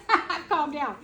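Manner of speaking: amused real laugh. Real, not acted. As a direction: chuckle through the words.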